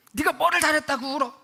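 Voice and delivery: high, sharp rise in an acted scolding; imitated angry father. Father to his sobbing eldest daughter, angry. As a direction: act out a dad telling off a crying child. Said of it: "아빠가 막 너무 화를 내요".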